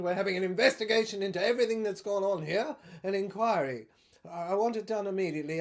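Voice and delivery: lightly voiced blustering army general, brisk and fast; a hint of a bossy officer, rattling orders off; pompous general. General voice announcing martial law.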